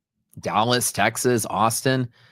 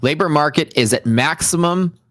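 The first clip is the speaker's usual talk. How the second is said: loud; 5 semitones higher, 4 dB louder than usual. Real, not acted. Reacting loudly to Powell's line.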